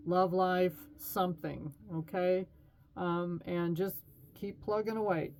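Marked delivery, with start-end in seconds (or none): 3.0-5.3 hiccuping while talking; hiccups. Real, not acted. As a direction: speak through hiccups. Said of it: "I'm hiccuping".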